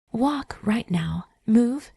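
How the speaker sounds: sharp whispered command, rising on move. Acted. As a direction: order her to move. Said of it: "he commanded".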